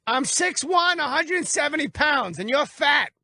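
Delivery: high, hammed-up boastful voice; squeaky mock bragging; mock caller voice. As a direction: parody a cocky caller. Host mimics caller's boast.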